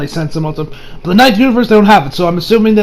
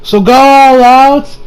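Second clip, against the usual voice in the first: higher, slow, hero challenge; confident Goku; 7 semitones higher, 4 dB louder, slower than usual. Retold or imitated. Goku urging Basil to fight harder, slow and higher. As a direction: egg him on like a cheerful hero. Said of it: "Goku tells".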